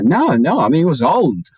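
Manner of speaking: put-on laughing French-accented denial. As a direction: imitate her brushing it off in French-accented English. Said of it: "and she said".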